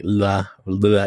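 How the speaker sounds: "la" with the tongue stuck out, a clear Spanish L; "la, la" with a front L, tongue out. Shown as a demonstration. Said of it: "You have to stick out your tongue".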